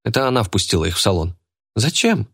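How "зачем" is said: put-on girl's voice. A narrator's reading. Girl voiced in story.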